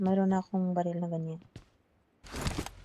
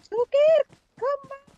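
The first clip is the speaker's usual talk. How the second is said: calling out; 5 dB louder, slower than usual. Real, not acted. Calling teammate back in game.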